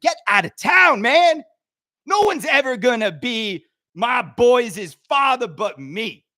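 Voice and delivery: a loud, high, swaggering put-on guy; loud mock swagger, like a different man; put-on persona voice. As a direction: slip into someone else's tough-guy voice. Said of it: "Why am I talking like this?".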